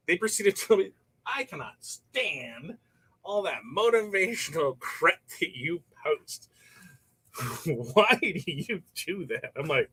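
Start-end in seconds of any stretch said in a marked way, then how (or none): 1.3-9.5 slow, drawn-out disdain; mock scornful fan. Fan complaining to Todd, mild mock scorn, slow. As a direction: drag it out like a lightly voiced critic. Fan railing on his posts.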